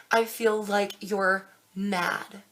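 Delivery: slow and weighted, each word placed; slow, deliberate. Shown as a demonstration. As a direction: lay it down slowly so it sinks in. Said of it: "I'm mad for you".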